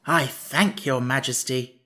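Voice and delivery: slow, meek thanks; bow your head as you say it; humble. Acted. Jack thanking the Emperor, slow and humble. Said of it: "said Jack humbly".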